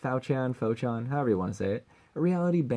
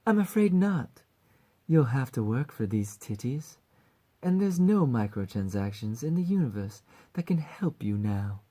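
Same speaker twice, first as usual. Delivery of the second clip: coy and teasing. Acted. Succubus mascot turning someone down, coy British teasing. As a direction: coyly refuse in a British voice. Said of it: "coy and teasing".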